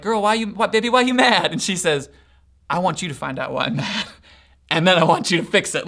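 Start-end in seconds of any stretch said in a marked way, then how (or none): 0.0-1.5 higher, mock-baffled boyfriend; acted pleading boyfriend. Boyfriend asking his mad girlfriend what is wrong, mock pleading. 2.7-5.9 mock mad girlfriend. Girlfriend laying down terms to her boyfriend, mock mad. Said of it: "When your girl's mad at you".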